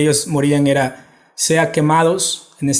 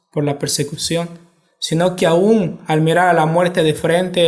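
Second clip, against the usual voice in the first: ordinary delivery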